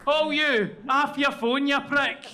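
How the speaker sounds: loud, high telling-off of a heckler; mock outrage. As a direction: lay into them, half joking. Mock telling-off of audience member.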